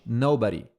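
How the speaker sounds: "nobody" as NO-buh-dee, first syllable strong; stress on NO. Shown as a demonstration. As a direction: lean on the "no" of "nobody". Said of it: "com o no forte". ("nobody" com o "no" forte)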